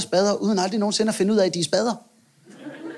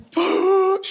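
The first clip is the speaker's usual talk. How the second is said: high mock gasp of shock; 12 semitones higher than usual. (spøget gisp af chok)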